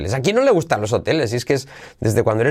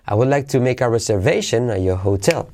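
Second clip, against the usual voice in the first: "reservation" and "hotel" accented in a statement; affirmative intonation. Shown as a demonstration. Teacher modelling statement intonation, "reservation" and "hotel" accented. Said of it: "la entonación de la primera frase".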